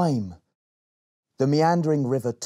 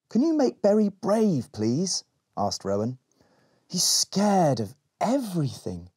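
put-on pleading girl; 8 semitones higher than usual. Rowan asks the Elderling.

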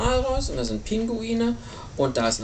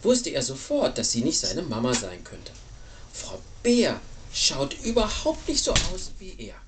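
expressive picture-book reading, falling low at the end; story narration to a child; 6 semitones lower than usual. Acted. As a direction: tell it with storybook sympathy.

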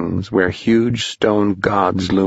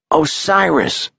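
put-on high, slow, awed boy voice; name it in wonder; 9 semitones higher than usual. A narrator's reading. Tom names the god.

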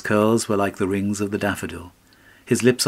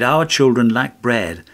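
angry cry; 4 semitones higher, 4 dB louder than usual. Acted. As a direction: let the wife cry out at him in anger. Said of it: "and spoke angrily, and cried".

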